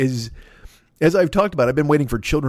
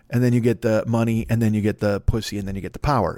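bad Scarface; 3 semitones lower than usual. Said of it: "that's a bad Scarface".

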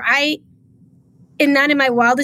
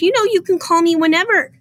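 imitated consoling, higher-pitched voice; retold solicitous tone, pitched up; 7 semitones higher than usual. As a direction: mimic her soothing reassurance. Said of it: "like, to console me".

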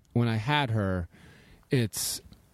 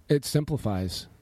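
tired, fading voice; voice giving out. Real, not acted. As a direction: speak as your voice gives out. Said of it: "I'm, like, losing my voice".

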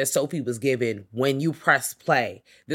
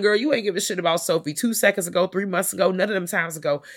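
higher, sarcastic rebuttal; higher, sassy rebuke; indignant callout; 5 semitones higher than usual. Retold or imitated. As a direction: call out their hypocrisy. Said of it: "I was like".

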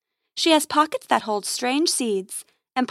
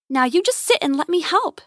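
higher, lilting coax; 5 semitones higher than usual. A narrator's reading. Grace persuades the snapping hexacorn, coaxing. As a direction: coax a wary animal into holding still.

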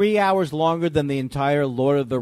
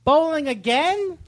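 high, slow disbelieving question; mock disbelief, stretched out; incredulous; 10 semitones higher, slower than usual. Mocking Todd's excuses.

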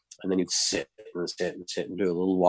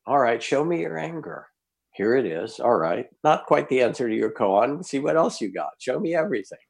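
lightly voiced teacher, pitched much higher; a mild, higher coaxing challenge; voicing the Zen master; 6 semitones higher than usual. Master urging the angry student on, lightly voiced higher.

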